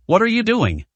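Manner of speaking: high, startled demand in mild alarm; a servant stunned by her closed eyes, shocked; shocked question. A narrator's reading. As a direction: blurt it out in shock. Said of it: "He asked in shock".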